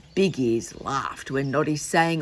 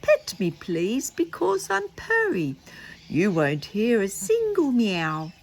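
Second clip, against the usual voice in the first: read song; 5 semitones higher than usual. Acted. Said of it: "I'm gonna read it".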